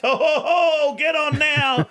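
high amused laugh. Real, not acted. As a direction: chuckle as you say it. Teasing Cats bandwagon.

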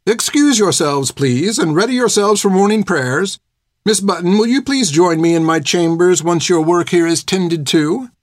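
prim elder nun. A narrator's reading. Sister Carmeline dismisses the children and summons Finn, prim. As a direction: dismiss the children with measured authority.

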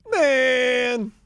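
a high, wailing cry of mock despair; hammed-up sports-loss lament; mock anguish. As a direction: wail it like the bet just broke your heart. Mock anguish over losing parlay.

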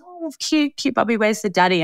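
friendly high-pitched coo, retold; imitated cooing stranger. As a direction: lightly mimic someone fussing over a baby. Friendly stranger cooing over baby.

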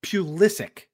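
"Pulisic" as PYOO-lih-sick; careful pronunciation. Shown as a demonstration. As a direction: say "Pulisic" with a PYOO start and hard K end. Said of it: "I believe it's".

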